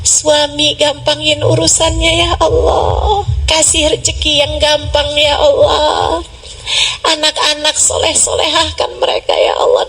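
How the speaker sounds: acted pleading, voice near tears; tearful prayer. Preacher acting out a wife praying for husband and children, tearful. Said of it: "Dengan linangan air mata kamu berdoa".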